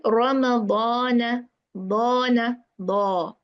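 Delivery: heavy, full alif in "Ramadan". Shown as a demonstration. Teacher shows sisters the heavy alif after a heavy letter, heavy alif. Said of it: "alif will be heavy".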